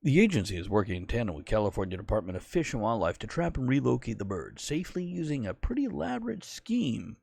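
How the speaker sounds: lightly put-on newsreader delivery; newscast voice. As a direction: read it like a TV news anchor. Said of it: "my newscast voice".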